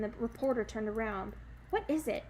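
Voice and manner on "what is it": impatient. Acted. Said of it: "she said impatiently".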